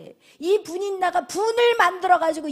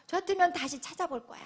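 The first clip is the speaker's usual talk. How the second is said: softer, hushed reveal; whisper; 2 semitones higher, 6 dB quieter than usual. Real, not acted. Preacher whispering Hannah's faith to the congregation. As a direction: lean in and whisper the point.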